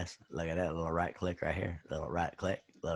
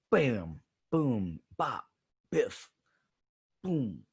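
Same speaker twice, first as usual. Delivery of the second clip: cartoon sound effects; 2 semitones higher, much slower than usual. Shown as a demonstration. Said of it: "What was that I called?".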